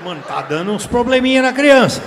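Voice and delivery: put-on a dad alarmed at his kid; loud mock worry; retold alarm.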